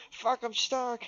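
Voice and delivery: loud, high sudden yelp; cat in mock alarm. Voicing the cat caught in wires, high loud alarm.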